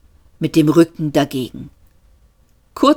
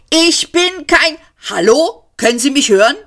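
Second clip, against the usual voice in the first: much higher, pleading shout; frustrated calling out; 9 semitones higher than usual. A narrator's reading. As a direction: call out as if nobody hears. Yelling at unresponsive machine. (Seyfort ruft verzweifelt ins Cockpit, viel höher)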